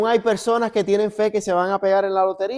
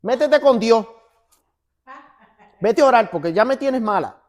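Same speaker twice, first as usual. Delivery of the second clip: louder, higher imitation of an exasperated wife; mock loving tone; 4 semitones higher, 5 dB louder than usual. Wife sending her stressed husband to God, exasperated mock-loving tone. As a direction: mimic your wife scolding, supposedly lovingly. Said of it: "en un tono muy amoroso".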